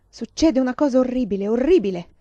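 horrified outburst; distraught. A narrator's reading. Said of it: "ruppe in singulti".

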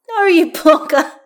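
slow, high, loud exclamation; boisterous shout. A narrator's reading. Karlach teasing Astarion at the barrier, shouting. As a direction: draw it out in a big shout.

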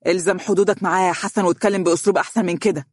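fast, mildly heated rebuke; angry warning. Acted. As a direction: warn him off with controlled anger. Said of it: "بغضب وأشار له محذرا". (تحذير بغضب مكتوم)

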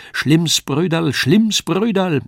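high, slow puppet cry, falling; Kasperl calling out. A narrator's reading. Kasperl rides the sparrow and cries out high and slow. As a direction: Kasperl shrieking down from above. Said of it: "rief einmal übers andere".

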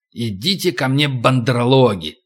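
python Kaa voice. Acted. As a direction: lure them in like a snake. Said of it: "питон К в лице говорящего".

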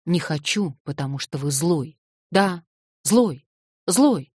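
put-on girl's refusal building from firm to a loud accusing cry; building anger, the last words shouted; rising anger. Girl angrily accuses old man.

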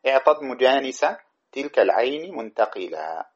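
slow chanted verse; slow lilting recitation of a grammar poem. Shown as a demonstration. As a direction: draw out each word of the poem.

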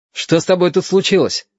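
nervous. A narrator's reading. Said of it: "нервно сказал Яшка".

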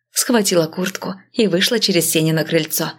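ordinary delivery, nothing marked

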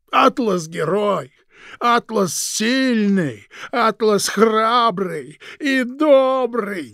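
mock the praise through tears; sobbing mockery. Krik crying as he mimics everyone's praise of Atlas. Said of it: "Теперь уже Крик разрыдался".

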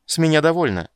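fed up siren singing out; melodic exclaiming siren. Acted. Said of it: "певуче воскликнула Шьейнас".

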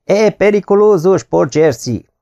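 manly bellow into the wind. Retold or imitated. Garibaldi before the battle, a mock heroic bellow. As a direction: boom it out like a hero on a hilltop. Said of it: "férfiasan harsogta a szélbe".

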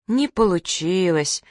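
slow, drawn-out letdown; disappointed drawl. Acted. Girl sighs that the experiment failed, drawn out. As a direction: stretch it out, deflated. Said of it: "разочарованно протянула Каришка".

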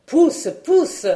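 high, loud cry of push; shouted urging. A narrator's reading. Aunt urging Catherine to push, high loud shout. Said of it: "criait encore dame Colette".

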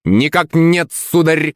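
high-pitched parrot squawk; high mimicked bird voice; Rambo. A narrator's reading. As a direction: cry it out like a parrot, rolling the R. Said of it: "закричал Кузьма голосом Рэмбо".

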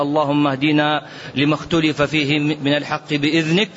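low, steady supplication; prayer. Acted. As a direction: pray humbly to close the sermon. Closing supplication.

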